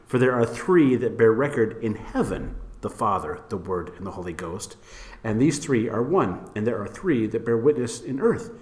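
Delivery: measured reading, phrases falling low at the ends; scripture reading. Real, not acted. Host reading the King James for comparison, scripture reading.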